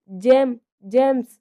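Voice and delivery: slow, loud call to the dogs. A narrator's reading. Dev calls his dogs away from Amulya, slow loud call. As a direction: call the dogs off firmly and drawn out. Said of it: "అని గట్టిగా పిలవగానే".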